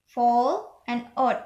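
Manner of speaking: "fall, and odd" with short O vowels. Shown as a demonstration. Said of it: "this is for short O".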